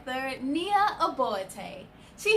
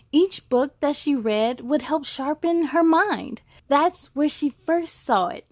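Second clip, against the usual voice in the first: louder, rhythmic read-aloud voice; story narration; 4 dB louder than usual. A narrator's reading. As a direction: read the rhymes to kids with bounce. Reads rhyming picture book.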